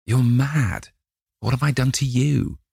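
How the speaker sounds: high, frightened cry of disbelief; panicked protest. A narrator's reading. Dorian to the gunman, high and frightened.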